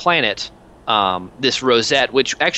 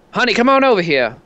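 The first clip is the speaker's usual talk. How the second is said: wounded commander; 9 semitones higher, 3 dB louder than usual. Acted.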